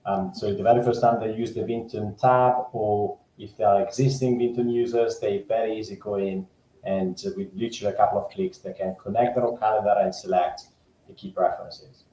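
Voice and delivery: hollow echoey cave sound. Real, not acted. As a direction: voice echoing as if in a cave. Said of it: "you're still sounding from the cave".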